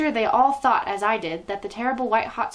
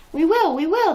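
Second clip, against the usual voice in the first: high, loud grating chorus; grinding witch chorus; 9 semitones higher, 6 dB louder than usual. Acted. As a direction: grind it out like dentist drills. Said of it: "like a chorus of dentist drills".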